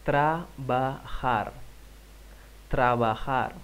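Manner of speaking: Trabajar as trabahar, slow; model pronunciation. Shown as a demonstration. Teacher models for repetition. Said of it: "Repite, por favor".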